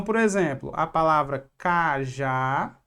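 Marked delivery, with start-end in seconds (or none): 1.6-2.8 cajá with the final JÁ drawn out; stress on last syllable. Shown as a demonstration. Teacher showing the tonic syllable, cajá stressed on JÁ. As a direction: lean long on the JÁ of cajá. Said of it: "que é a última".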